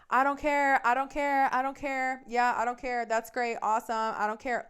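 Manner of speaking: loud, high, rapid-fire dismissal; talking over someone. Retold or imitated. Girlfriend overtalking boyfriend so he can't speak, loudly dismissive. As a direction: drown them out, starting high and easing slightly. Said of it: "over talking him so he doesn't have a chance to speak".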